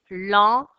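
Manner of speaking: "Lampe" loud, split as lam, pe; syllable by syllable. Shown as a demonstration. Teacher names the second drawing, syllable by syllable. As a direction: pause before the final pe of "Lampe". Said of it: "Deux syllabes".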